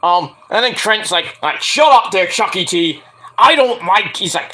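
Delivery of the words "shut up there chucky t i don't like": mild mock anger. Trent snapping at Chucky T.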